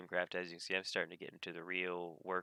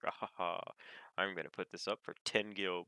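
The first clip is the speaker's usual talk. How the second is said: lightly voiced villain with a cackle; a hint of a cackling cartoon villain; Penguin from Batman. Market undercutter gloating over a cheap listing, lightly voiced villain. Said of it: "they sound like the Penguin from Batman".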